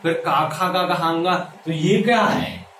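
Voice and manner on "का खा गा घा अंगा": long aa vowels run through "का, खा, गा, घा"; mock recital of "का, खा, गा, घा, अंगा"; mimicked wrong recitation. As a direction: repeat the pupil's "अंगा" with a full open "gaa". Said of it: "ऐसा तो नहीं होता भैया".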